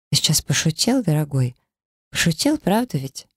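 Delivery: a pampered wife who can't believe it; indignant doll-wife. A narrator's reading. Inessa pleads disbelief.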